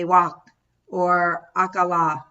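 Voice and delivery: "wak" or "akala" said as Afghan cries of pain; Afghan pain words. Shown as a demonstration. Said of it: "they say".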